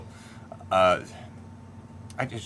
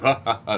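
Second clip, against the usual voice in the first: maniacal laugh; 4 dB louder than usual. Retold or imitated. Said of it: "this maniacal laugh".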